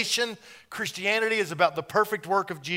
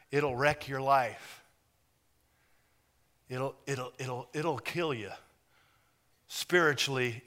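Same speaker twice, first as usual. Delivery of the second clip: God quietly warns of the forbidden tree; grave quiet warning; 3 semitones lower, 6 dB quieter than usual. Retold or imitated. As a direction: hush it like a solemn warning.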